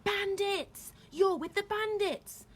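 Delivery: loud, high, drawn-out alarm; screamed. A narrator's reading. Woman recognising the bandits, screaming. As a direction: scream out the accusation. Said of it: "screamed the woman".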